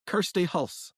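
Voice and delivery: name said in a light Scottish accent; Kirsty Hulse in a mild Scottish lilt. Shown as a demonstration. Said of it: "can you say my name for me".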